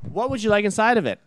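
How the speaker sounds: high-pitched mock server question; exasperated back-and-forth. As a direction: replay a server's wearying question. Re-enacting stupid back and forth.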